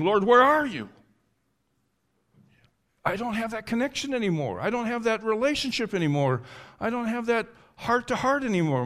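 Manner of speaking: high-pitched, anguished plea; desperate lament, pitched well up; crying out to God. Acted. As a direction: cry out as if abandoned by God. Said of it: "as he's crying out to God".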